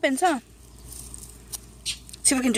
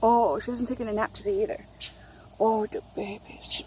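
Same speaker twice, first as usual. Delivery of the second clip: whisper; 4 semitones lower, 9 dB quieter than usual. Real, not acted. Whispering over the baby.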